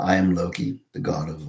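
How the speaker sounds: lightly attempted British accent as Loki. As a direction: try out a British accent, still learning. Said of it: "working on my, uh, British accent".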